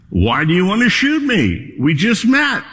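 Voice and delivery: high, pleading bear voice; a storybook bear begging not to be shot; talking bear. A narrator's reading. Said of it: "talking bear".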